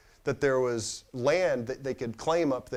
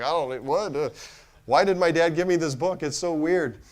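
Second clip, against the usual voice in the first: louder, higher incredulous complaint; mock bafflement; 4 semitones higher, 5 dB louder than usual. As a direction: act out a weirded-out teenager's protest. Acting his baffled teenage reaction.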